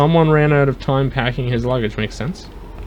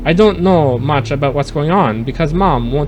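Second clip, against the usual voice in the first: put-on French accent. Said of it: "You didn't like my French accent?".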